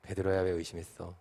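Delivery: soft, low, gentle question; quiet, fond chiding; smiling Jesus. Acted. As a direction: ask it tenderly, with a smile. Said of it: "예수님께서는 웃고 계셨을 것 같아".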